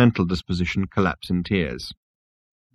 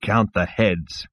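low rasp; much slower than usual. Acted. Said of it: "said Zaphod in a low rasp".

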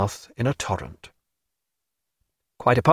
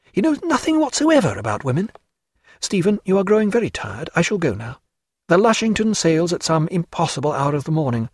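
higher, lighter lady's voice, fond and fluttering; Diana's voice; 5 semitones higher than usual. Acted. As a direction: play a lively society lady fussing over a sick friend.

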